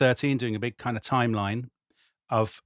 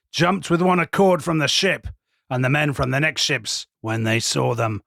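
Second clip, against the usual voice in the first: dramatic gladiator-style epic reading; Russell Crowe voice. Acted. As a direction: read it like General Maximus rallying troops. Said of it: "I did it as Russell Crowe".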